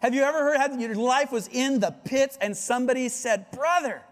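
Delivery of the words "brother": slow, high, syrupy pious platitude; mock preachy brother talking down; cheesy Christian cliche. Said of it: "a cheesy Christian cliche".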